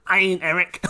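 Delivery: words through real laughter; real giggling denial; laughing helplessly. Real, not acted. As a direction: crack up mid-sentence.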